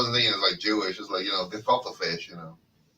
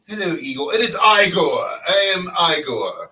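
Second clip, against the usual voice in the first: lightly voiced Igor from the movie; a hint of a creepy lab assistant. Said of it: "Don't I look like Igor?".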